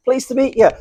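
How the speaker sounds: high mock American greeting; American Spart accent. Spart introducing himself at uni, high mock American accent. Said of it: "doing the American Spart accent".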